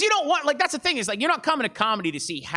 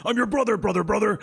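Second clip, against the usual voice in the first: Hulk Hogan. Pretend. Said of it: "This is Hulk Hogan".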